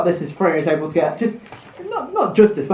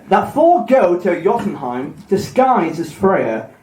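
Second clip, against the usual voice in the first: slow, measured myth reading; story narration; slower than usual. A narrator's reading. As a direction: read it out like an old tale, unhurried. Reads the myth aloud.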